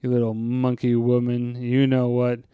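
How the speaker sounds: lightly voiced daft groundskeeper; Carl. Groundskeeper narrating to Missus Crane, lightly voiced low ramble. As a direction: swell on the oohs, then sink back into low murmuring. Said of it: "get in the Carl space".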